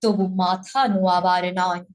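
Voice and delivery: slow, measured poetry recital with long pauses; poem recitation. Shown as a demonstration. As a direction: recite the poem line by line, unhurried.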